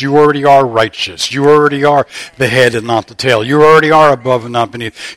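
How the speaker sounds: loud, ringing preacher's cadence, hammering each "already"; preaching at full force. Acted. Pastor declaring identity over his congregation, full-force preaching. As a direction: lift the whole church with every line.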